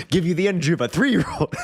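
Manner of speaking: hammed-up gym bro salesman; GNC bro. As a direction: pitch supplements like a pumped bro. Gym bro quote continues.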